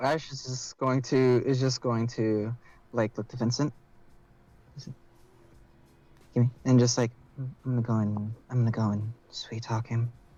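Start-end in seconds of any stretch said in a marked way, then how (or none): 7.4-10.1 deadpan flat monotone, level pitch. Playing a character who says she'll sweet talk him: monotone in character. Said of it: "just monotone".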